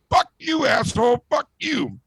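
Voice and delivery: high-pitched, acted tantrum; drunken outburst. Drunk one-foot pianist cursing the bartender, mock angry outburst. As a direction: squeal the insults like a tiny drunk. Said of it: "he's really drunk".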